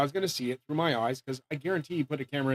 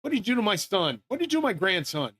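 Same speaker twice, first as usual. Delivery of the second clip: retold angry demand, somewhat raised pitch; pissed-off Jesus; 4 semitones higher than usual. Jesus confronting them over his family, acted indignation. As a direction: imitate an indignant relative demanding answers. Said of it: "Jesus is pissed".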